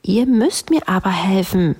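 high, demanding princess; annoyed. A narrator's reading. Locked-up princess demanding rescue, annoyed high call. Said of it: "was diese sehr verärgerte".

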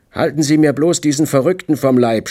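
frightened shout. A narrator's reading. Wade begging to keep the madman off, frightened shout. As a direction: cry out to be protected. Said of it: "schrie Wade und zeigte zum ersten Mal so etwas wie Furcht".

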